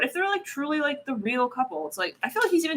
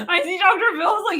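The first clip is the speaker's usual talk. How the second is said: higher and louder, laughing through the words; can barely get it out for laughing; laughing hard; 8 semitones higher, 5 dB louder than usual. Real, not acted.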